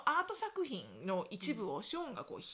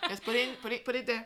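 impatient brush-off; 4 dB louder than usual. Retold or imitated. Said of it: "置いといてみたいなね".

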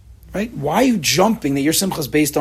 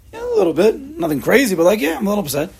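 high mock fan voice; 9 semitones higher than usual. Sports fan answering.

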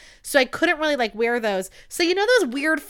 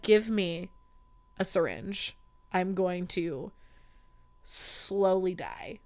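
mock despair; 4 semitones lower, 8 dB quieter, much slower than usual. Mock despair at nurse's remark.

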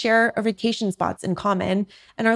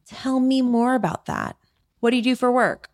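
curious prompt; 4 semitones higher than usual. Shown as a demonstration. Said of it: "here's the key".

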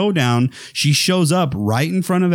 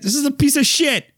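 mock scorn; 13 semitones higher than usual. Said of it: "she said".

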